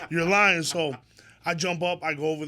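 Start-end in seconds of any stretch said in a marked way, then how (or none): 0.1-0.6 laughing disbelief. Retold or imitated. Laughing disbelief at friend's news.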